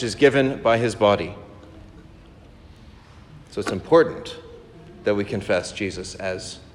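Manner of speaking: put-on measured, rhythmic recitation of an old text; steady liturgical reading voice; solemn reading. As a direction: read it like a litany, each question rising to its answer. Reads patristic litany aloud.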